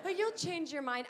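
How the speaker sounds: high, sing-song mock of a know-it-all; mock condescending. To people judging her choice, mock sing-song condescension. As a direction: parrot the smug advice back.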